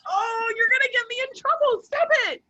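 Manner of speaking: high, half-shouted laughing plea; laughing protest. Retold or imitated. Scolding Mark in the back row, high laughing half-shout. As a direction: beg him to stop through giggles. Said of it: "And I'm like".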